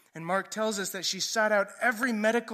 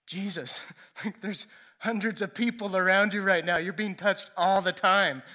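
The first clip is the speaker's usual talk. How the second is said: laughing disbelief, getting louder; louder, exasperated retold protest; mock incredulous; 6 dB louder than usual. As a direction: point out the obvious, half laughing. Disciples incredulous at Jesus' question.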